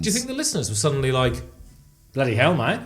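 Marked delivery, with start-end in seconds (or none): 2.1-2.8 put-on Australian accent. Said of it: "Like the Australians were going".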